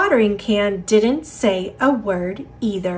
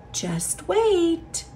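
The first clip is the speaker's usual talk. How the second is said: hushed and gentle, softer; soft whisper; 7 semitones higher, 6 dB quieter than usual. Acted. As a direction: whisper it kindly. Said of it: "the wind whispered".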